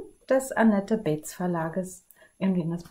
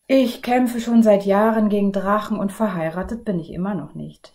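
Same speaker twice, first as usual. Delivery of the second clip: mild whining, louder, fading at the end; whining prince; 6 dB louder than usual. Acted. Another prince whining to the others, mildly plaintive. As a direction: moan about never marrying. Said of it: "jammerte ein anderer".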